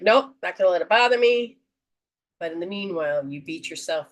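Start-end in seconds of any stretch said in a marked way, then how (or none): 0.0-1.6 dismissive brush-off. Retold or imitated. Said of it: "but then you were like".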